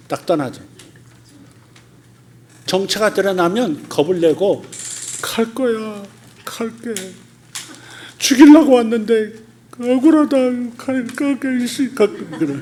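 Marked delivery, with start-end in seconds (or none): 5.2-12.5 higher, whiny grumbling demon voice; a caught demon grumbling that it's unfair; sulky demon. Acted. Exposed demon grudgingly leaving.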